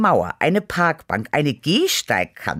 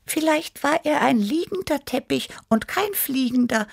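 high cat voice; 13 semitones higher than usual. Acted. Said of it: "überlegte Tibi".

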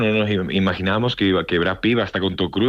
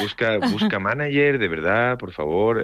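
higher, slow, pleading; slow excited urging, voice up high; high excited plea; 5 semitones higher, slower than usual. Retold or imitated. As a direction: beg him to get a manager. Urging friend to get manager.

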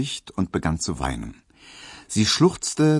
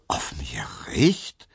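slow, lower, tearful whisper; shocked whisper; 6 semitones lower, slower than usual. Acted. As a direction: breathe it out in dismay, close to crying. Pauline hears shocking news.

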